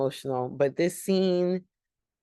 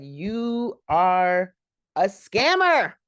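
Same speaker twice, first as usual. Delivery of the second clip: mock accusation, "scammer" hit much higher and louder; snapped accusation; 4 semitones higher, 5 dB louder, much slower than usual. Ada confronting the fake medium, louder mock snap. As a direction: call the medium out, punching "scammer" up high. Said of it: "but she snapped".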